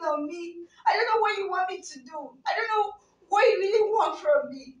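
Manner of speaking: tearful pleading. Acted. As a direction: near tears, defending love.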